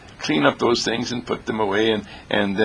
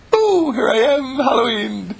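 playful boo; 13 semitones higher than usual. Pretend. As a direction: jump out and startle them. Jumping out like a spook.

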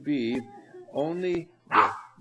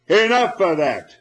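loud, higher, firm call to stop; 6 semitones higher, 14 dB louder than usual. Retold or imitated. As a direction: stop the kids with one firm shout. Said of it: "firm and loving and gentle and definite".

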